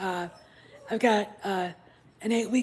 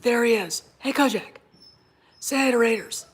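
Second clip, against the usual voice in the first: louder, lifted pet-owner voice; talking to a puppy; 3 semitones higher, 6 dB louder than usual. Real, not acted. Owner showing the puppy to viewers, calling to pet. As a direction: call the puppy over to greet viewers.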